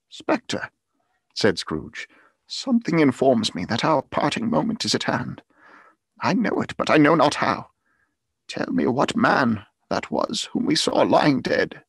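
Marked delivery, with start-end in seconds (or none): 0.1-0.7 high, breathless call to a ghost; anxious Scrooge. A narrator's reading. Scrooge addressing the spirit, anxiously calling. 2.5-11.8 loud, higher, urgent pleading; anxious Scrooge. A narrator's reading. Scrooge begging the spirit for an answer, urgently.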